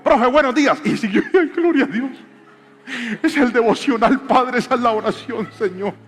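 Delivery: loud, high preaching at full tilt; fervent preaching. Acted. Pastor tells the church his son's story, loud and fervent. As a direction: proclaim it with joyful fire.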